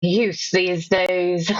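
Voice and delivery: put-on slow, grumbling old man line; a hint of a cynical old man. Trying an angry cynical old man, slow. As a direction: drag it out like a grumpy old man. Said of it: "an angry, old, cynical man".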